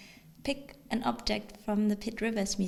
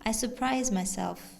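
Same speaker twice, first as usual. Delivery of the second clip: measured recital, phrase by phrase; poetry reading. Acted. Poet addresses owner of an envied house, measured recital. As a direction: let each listed image land separately. Reads poem aloud.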